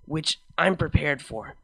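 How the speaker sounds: lightly voiced mare, loving and earnest; gentle heartfelt vow to a partner; Vinyl, tender. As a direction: reassure her with full devotion. Vinyl comforts her.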